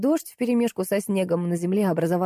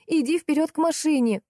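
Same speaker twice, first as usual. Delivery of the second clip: a much higher shouted call; 9 semitones higher than usual. A narrator's reading. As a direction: shout the order into the dark. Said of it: "завопила я".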